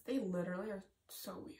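fond whispered aside. Real, not acted. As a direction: whisper it like a secret.

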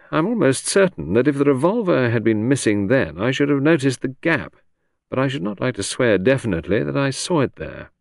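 hesitant, weighing his words; Sir Henry. Acted. To the inspector, recalling the drawer, measured gentleman.

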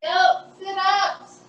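slow, straining through sit-ups; forcing words out mid-rep; strained, doing sit-ups. Real, not acted.

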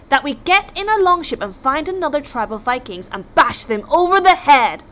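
lightly voiced blustering king, proud and sure; a hint of a self-important chieftain speechifying; pompous Viking king. King announces war plan.

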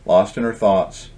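gentle storybook reading voice; story narration. A narrator's reading. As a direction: read it like a bedtime tale. Author reads his book aloud.

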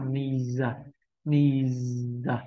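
"ni giờ", the final sound made its own syllable; two-beat "ni giờ" for practice; final z voiced as giờ. Shown as a demonstration. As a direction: say "ni giờ" with an added schwa after the z. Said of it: "các bạn cứ đọc thành âm giờ".

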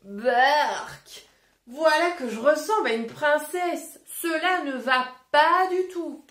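lightly voiced wolf, a touch of disgust; a hint of a fussy wolf pulling a face.

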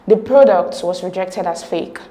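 "product" given the main emphasis; emphatic stress on PRODUCT. Shown as a demonstration. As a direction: stress "product", then let the rest follow evenly. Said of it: "capital letters has the emphatic stress".

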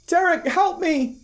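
very high, slow monotone cry for help; emotionless monotone mimic. A narrator's reading. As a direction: sound like an eerie recording of a voice played back. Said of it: "A monotone with no emotion".

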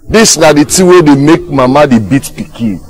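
high-pitched exasperated rebuke; scolding. Acted. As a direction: scold like a fed-up parent. Scolding the other man.

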